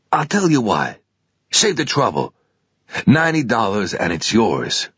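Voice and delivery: a keen clerk talking up his stock; pawnshop salesman. Acted. Pawnshop clerk voiced in story.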